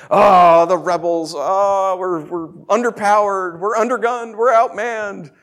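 hammed-up moan, rising in pitch; mock despair. Storyteller moaning as outgunned rebels, mock despair. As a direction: bemoan the odds in mock woe.

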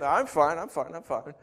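lightly acted drunk insisting; slurred drunk. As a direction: play a mildly tipsy brush-off. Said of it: "they're slurring their speech".

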